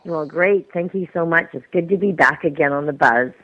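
little projection after neck surgery; weak voice. Real, not acted. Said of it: "you don't have the projection".

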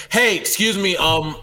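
high, polite attention-getter; politely flag them down, a bit hesitant; too-kind approach. Shown as a demonstration. Co-host coaching a complaint, far too kind. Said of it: "It was far too kind".

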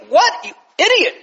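hammed-up furious dad yelling; livid father. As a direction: rage at your son for passing up the deal. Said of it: "That's what we would say".

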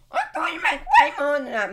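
high, loud laughing interviewer. Pretend. Pretend interviewer laughs loudly and high at the answer. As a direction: laugh out the question. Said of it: "Would you like to be interviewed?".

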